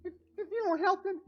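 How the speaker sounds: very high, stammering little plea; squeaky, pleading creature voice; frightened tiny creature. Acted. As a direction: warn desperately as a tiny critter. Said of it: "you hear a tiny voice".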